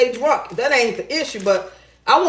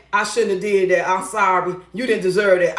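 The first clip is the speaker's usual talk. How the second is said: lower, subdued mock apology; a touch contrite, in imitation; retold apology; 5 semitones lower than usual. Woman quoting man apologizing to her, mildly contrite. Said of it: "He apologized later that day".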